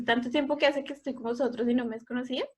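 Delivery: a touch of surprise, quick; mildly surprised, rushing the question; retelling Jesus's surprised question to Felipe. Retold or imitated. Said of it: "el Señor Jesús sorprendido le dice".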